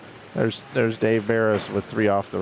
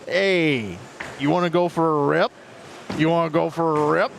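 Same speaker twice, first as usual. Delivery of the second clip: a bit higher, eager pal asking; mock Canadian invite; 5 semitones higher than usual. Buddy inviting friends to go for a rip, upbeat. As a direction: pitch the offer like a buddy. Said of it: "and then you're like".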